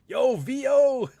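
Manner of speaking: laughing mockery. Mocking the rapper, cracking up.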